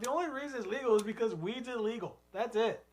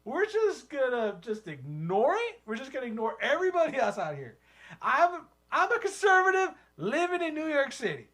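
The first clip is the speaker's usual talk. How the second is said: conservative city hipster; 4 semitones higher than usual. Pretend. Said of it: "type of guy like that".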